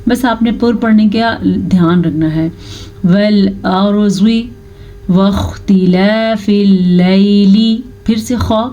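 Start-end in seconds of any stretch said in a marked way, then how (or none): 3.0-7.8 slow, melodic tajweed recitation; Quran recitation. Shown as a demonstration. Teacher reciting a verse for her pupils, slow and chanted.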